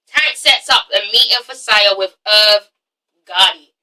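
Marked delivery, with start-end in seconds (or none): 2.3-3.7 put-on American pronunciation of the name; American accent. Shown as a demonstration. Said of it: "say that in an American accent".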